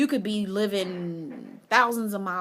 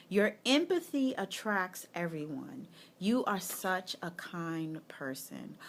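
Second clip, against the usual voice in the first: reading the card again. Shown as a demonstration. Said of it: "the news flash says".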